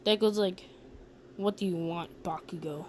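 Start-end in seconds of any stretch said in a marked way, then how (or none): 1.4-2.8 low, soft, reluctant acted voice; guarded reply. Deku answers the bully after school, acted guarded reply. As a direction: answer low and quiet, wanting no trouble.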